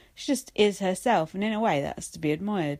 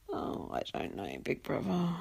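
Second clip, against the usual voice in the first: mock despair; 9 dB quieter than usual. Real, not acted. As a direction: sigh it to the sky.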